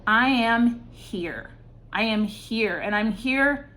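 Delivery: slow, insistent "I am here" three times; emphatic declaration. Shown as a demonstration. Reader voicing a champion, too insistent. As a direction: declare it like you're proving yourself. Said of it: "wouldn't even say it like that".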